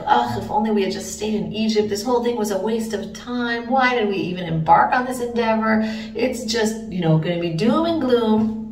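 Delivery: mildly voiced cynic; cynical complaining. Cynical Israelite regretting leaving Egypt, mild complaint. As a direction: grumble with weary mock cynicism. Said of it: "this cynical voice saying".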